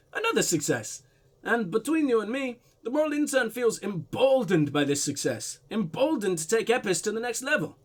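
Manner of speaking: put-on light blend of Russian and German accents. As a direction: voice the man with a slightly muddled Russian-German accent. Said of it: "weird blend of Russian and German".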